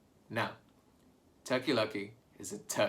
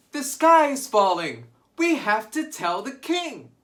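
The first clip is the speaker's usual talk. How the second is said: panicked shout; 10 semitones higher, 10 dB louder than usual. Acted. Birds panicking in story.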